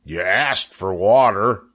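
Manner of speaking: understated meekness, drawn out; a touch of slow, sheepish excuse; meek reply. A narrator's reading. Lurvy answers drenched Zuckerman, mildly meek. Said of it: "said Lurvy meekly".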